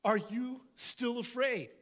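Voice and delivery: a teacher baffled by his students; exasperated teacher. Acted. Jesus asking frightened disciples why they doubt, exasperated. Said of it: "He was like".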